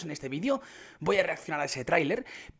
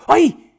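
sudden loud, high yelp; short, high exclamation of shock; startled yelp; 10 semitones higher, 15 dB louder than usual. Real, not acted. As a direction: cry out in surprise. Startled by game update.

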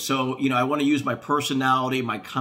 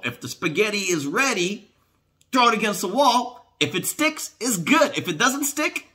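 much higher, singsong and playful; 10 semitones higher, 3 dB louder than usual. Pretend. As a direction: pitch it way up playfully. Playful spaghetti-on-wall bit.

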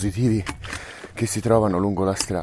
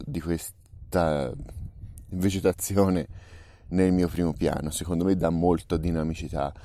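quiet; 3 semitones lower, 5 dB quieter than usual. Real, not acted. Quiet explanation at the shot.

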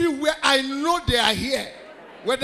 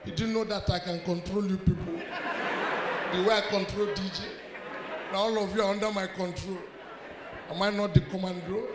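quiet mock menace; 4 semitones lower, 9 dB quieter than usual. Mock control boast after shouting.

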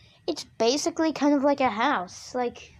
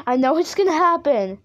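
higher, more insistent worry; rising dread; 4 semitones higher, 4 dB louder than usual. Real, not acted. Player foreseeing a scare at the crack, rising dread. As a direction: insist nervously, pitch climbing.

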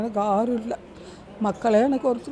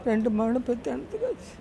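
real crying; 4 dB quieter than usual. Real, not acted. Mother speaking of the sons she lost touch with, crying. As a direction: voice rising and thinning into tears. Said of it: "சரி, அழாதீங்க".

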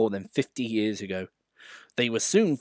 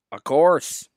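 smiling; 5 semitones higher, 7 dB louder than usual. Acted. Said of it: "smiled the famous engine".

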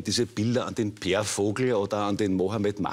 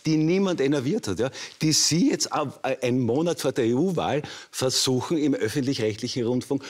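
higher-pitched, real indignation; indignant accusation; 4 semitones higher than usual. Real, not acted. Candidate accuses TV interviewer of dredging up old story, indignant. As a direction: press the accusation, voice raised in pitch.

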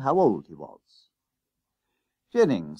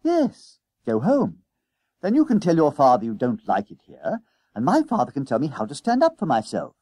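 put-on insistent boy, louder and higher; lightly voiced eager schoolboy; 4 semitones higher, 5 dB louder than usual. Jennings urges friend to run home, mildly excited. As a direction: press the plan with boyish conviction.

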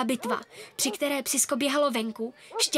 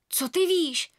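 defensive; 5 semitones higher, slower than usual. Acted. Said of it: "bránila jsem se".

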